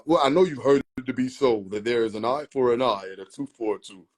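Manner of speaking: put-on a first, off-target take on the old-English preacher voice; wrong Jesus accent. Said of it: "I'm giving a nigga the wrong accent".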